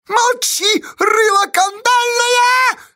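extremely high, drawn-out screech; furious shriek. A narrator's reading. Fiska silencing Pozdey, furious shriek. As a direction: screech the insult at him. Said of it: "завизжала Фиска".

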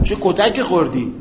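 ordinary talk

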